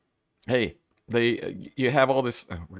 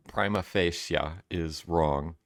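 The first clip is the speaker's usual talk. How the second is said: mock legal jargon; 5 semitones lower, 4 dB quieter, slower than usual. Shown as a demonstration. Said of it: "I don't even know what those words mean".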